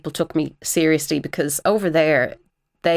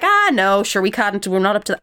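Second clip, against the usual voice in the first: self-deprecating Irish; 4 semitones higher than usual. Retold or imitated. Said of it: "Over here, we're like".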